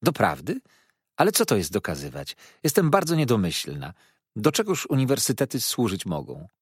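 a mock-naive young lady asking; exclaiming. Miss Dartle needling Mrs Steerforth, mock-innocent exclaiming. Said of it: "Panna Dartle zawołała".

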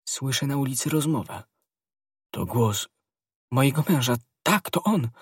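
high, anxious woman's voice; alarmed realisation. A narrator's reading. Wife hears her husband outside.

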